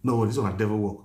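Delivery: low, soft reassurance; calming the daughter down quietly; soothing. Retold or imitated. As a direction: settle a frightened girl gently. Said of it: "Eh, I say".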